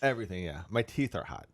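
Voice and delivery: talking through a burning mouth; mouth burning from spicy food. Real, not acted. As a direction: mouth on fire from hot wings. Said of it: "Everything in my mouth is hot".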